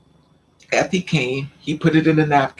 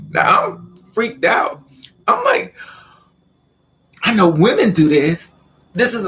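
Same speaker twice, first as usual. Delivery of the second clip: shocked; 6 semitones higher, 4 dB louder than usual. Retold or imitated. Retelling shock at his move.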